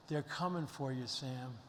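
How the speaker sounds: dropped to a soft, hushed voice for Oda Mae; hushed retelling. Retold or imitated. Speaker retelling Oda Mae warning Sam, softly hushed.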